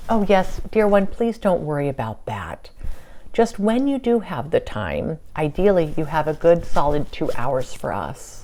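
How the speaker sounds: lightly voiced gracious royal, pitch lifted at phrase starts; Queen Elizabeth. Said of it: "And she's like".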